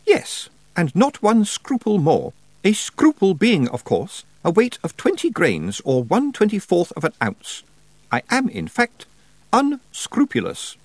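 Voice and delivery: high, slow, pleased-with-herself schoolmistress; smug witch teacher. A narrator's reading. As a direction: savour the clever joke, slowly. Miss Tick's teachery joke.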